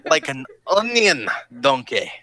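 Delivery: slow, drawn-out mock ogre voice; a lightly voiced grumpy ogre; ogre movie impression. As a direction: do your best cartoon ogre, dragging the words. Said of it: "you actually do that pretty well".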